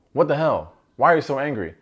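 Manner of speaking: put-on retelling a boyfriend's outraged yell; mock outraged yell. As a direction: fake offended shout at her. Harry's acted outburst at Jessica.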